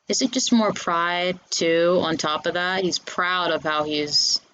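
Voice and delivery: muffled, mouth covered; hand over mouth. Real, not acted. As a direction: talk through your hand. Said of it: "I was covering my mouth most of the interview".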